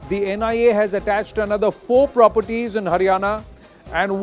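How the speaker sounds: brisk news anchor read; in a newsroom. Acted. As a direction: open the bulletin like a live TV anchor. Anchor reads news over music.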